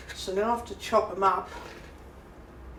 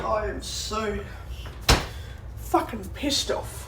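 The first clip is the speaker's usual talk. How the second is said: slow angry whisper; slower than usual. Real, not acted. Alone, fuming at the price guide.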